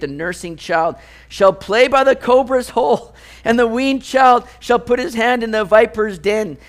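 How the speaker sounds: reads the verses aloud, measured and solemn; scripture reading. Acted. Pastor reading Isaiah to the congregation, solemn scripture reading. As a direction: give the prophecy its weight.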